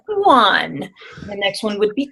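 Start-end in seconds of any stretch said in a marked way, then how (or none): 0.1-0.9 mildly sad one. Shown as a demonstration. Coach demoing a number in a sad voice. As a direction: say it like you're a little sad. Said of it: "So you might say it's sad".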